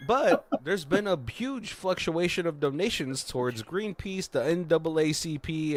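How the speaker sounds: high, projected mock newsreader; news anchor. News report closing the movie, in anchor voice. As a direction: announce it like a TV headline. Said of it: "a news where it's like".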